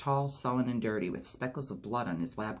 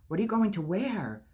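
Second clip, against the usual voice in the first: put-on much higher, louder girlish squeal; excited question; 10 semitones higher, 5 dB louder than usual. A narrator's reading. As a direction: gush with excitement. Excited girls about Boston trip.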